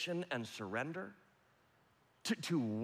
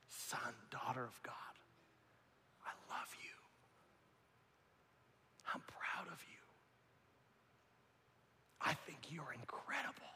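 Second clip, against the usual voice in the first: tender whisper; 2 semitones lower, 12 dB quieter than usual. Pretend. God speaking to his child, whispered tenderness. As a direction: breathe it gently, face to face. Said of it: "your face in his hands".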